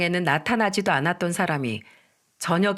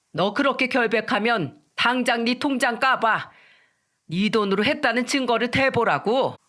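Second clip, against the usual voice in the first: acted angry demand, slightly raised pitch; fiery anger; 3 semitones higher than usual. Mother-in-law demanding to see the bankbook, angrily. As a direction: demand it in moderately heated anger. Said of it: "더 불같이 화를 내며 소리쳤습니다".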